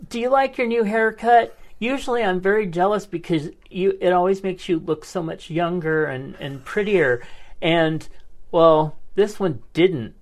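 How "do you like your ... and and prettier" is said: reading his message. Retold or imitated. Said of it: "he sent me this message that said".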